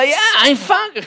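high, slow, drawn-out proud reply; hammed-up delighted squeal; proud self-satisfaction. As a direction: announce yourself like a celebrity. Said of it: "ואני מרגיש טוב עם עצמי".

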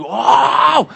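high, loud drawn-out gasp of amazement; hammed-up shocked exclamation; shocked wow. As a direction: react aghast to the swearing. Acts out shock at the cursing.

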